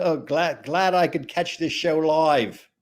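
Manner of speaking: slow, playful Aussie read-out; put-on Aussie accent, drawn out; Australian accent. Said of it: "Do the Australian accent again".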